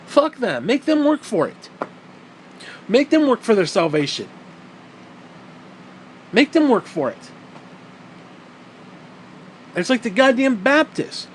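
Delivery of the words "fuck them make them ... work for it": mock conservative Christ. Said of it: "He'd be like".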